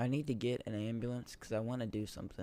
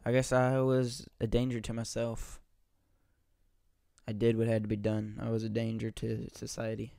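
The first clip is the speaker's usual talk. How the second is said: shouting; 10 dB louder than usual. Real, not acted. Shouting after rampage in game.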